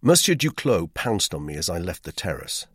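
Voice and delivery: plain reading voice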